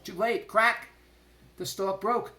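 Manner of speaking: high, loud suspense burst; excited narration; dramatic alarm. A narrator's reading. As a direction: hit the crisis hard.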